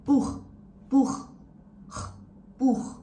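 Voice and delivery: "Buch" con ch raschiato come un russare; snoring ch. Shown as a demonstration. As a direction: raschia il ch di "Buch" in fondo alla gola. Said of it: "Or the snoring sound".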